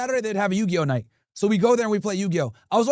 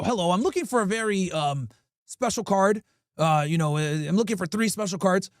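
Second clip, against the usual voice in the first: fake collector. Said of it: "pretend to be Magic the Gathering collectors".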